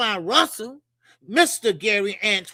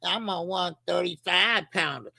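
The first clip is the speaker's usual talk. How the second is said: mocking whine; 4 semitones lower, 4 dB quieter than usual. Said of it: "Y'all stop saying".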